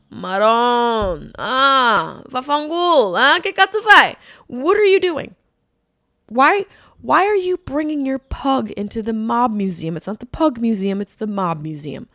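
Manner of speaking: loud, high Italian mob rant; Italian mobster accent. Acted.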